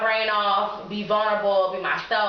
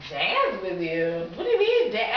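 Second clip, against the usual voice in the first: baffled, can't believe what he hears; confused disbelief. Retold or imitated. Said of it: "he was so confused".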